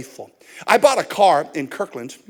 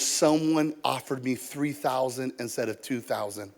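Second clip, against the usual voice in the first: subdued explanation; 6 semitones lower, 8 dB quieter than usual. Retold or imitated. Seller explains apologetically, retold.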